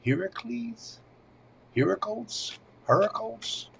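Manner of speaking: Heracles tried three times, each high and questioning, HAIR-uh-kleez then ER-uh-kulz; unsure pronunciation. Real, not acted. Reading a viewer's question aloud, unsure how to say the name. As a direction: sound out Heracles tentatively, testing different stresses. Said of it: "I'm not sure how you pronounce that".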